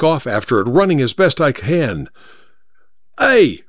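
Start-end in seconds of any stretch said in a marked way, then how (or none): 3.2-3.6 high-pitched call, only slightly louder; yell. Acted. Narrator hails the departing third cab, yelling. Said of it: "I yelled".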